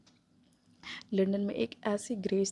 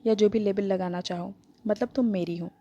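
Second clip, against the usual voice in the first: possessive firm. Acted. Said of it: "possessive firm voice में बोला".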